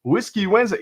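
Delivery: slow, drawn-out show-host swoops; milk each word like a cheesy game show host; stretched-out, swooping announcer hype. Real, not acted. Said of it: "I sound like a cheesy game show host".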